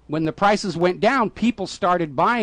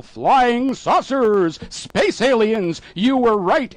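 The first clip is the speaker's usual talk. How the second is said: mock amazement; 4 semitones higher, much slower than usual. Mocking UFO believers' excitement.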